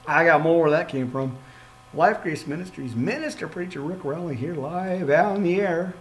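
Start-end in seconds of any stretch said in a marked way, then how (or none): 1.9-5.9 lightly voiced radio host; a hint of a broadcast announcer; mild radio-host read. Shown as a demonstration. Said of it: "That's my radio voice".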